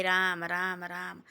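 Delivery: drawn-out "Ram, Ram", lightly intoned; sweet-voiced parrot. King retelling the parrot's greeting, lightly sweet-voiced. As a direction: let each vowel stretch and settle. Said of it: "इतनी मीठी वाणी बोले उसकी".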